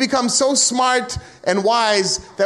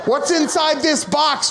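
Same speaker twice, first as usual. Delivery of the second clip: laughing shout; 5 semitones higher, slower than usual. Acted. Arguing with girlfriend.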